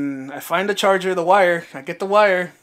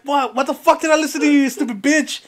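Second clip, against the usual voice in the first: fast, high, loud retold scolding; angry rant; 9 semitones higher, 4 dB louder than usual. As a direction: re-enact berating a friend in disbelief. Retold argument with John.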